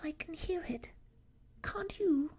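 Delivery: high, tiny, nervous voice; Piglet, anxious. A narrator's reading. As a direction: ask nervously in a little squeak. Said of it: "said Piglet anxiously".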